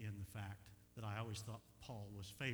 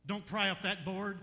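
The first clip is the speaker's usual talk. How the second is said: resisting plea; 8 semitones higher, 11 dB louder, slower than usual. Retold or imitated. His own inner plea.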